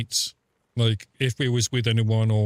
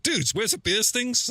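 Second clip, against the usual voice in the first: higher, slow, mock dazed rock star; 11 semitones higher than usual. Retelling a festival run-in with a star, hammed-up dazed voice. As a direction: drag it out like a fuzzy-headed singer. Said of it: "he's like".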